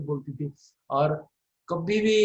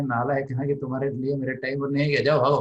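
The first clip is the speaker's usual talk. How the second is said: mock scolding teacher; 5 dB louder than usual. Worldly teacher dismissing bad pupils.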